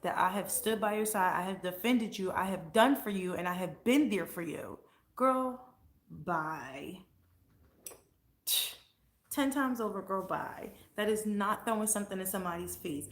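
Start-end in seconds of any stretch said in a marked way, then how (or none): 0.0-4.8 louder, fired-up pushback; heated rant. Real, not acted. Ranting at the old friend who accused her, fired up. 5.1-10.7 sassy dismissal. Real, not acted. Dismissing the friend with a sassy girl, bye.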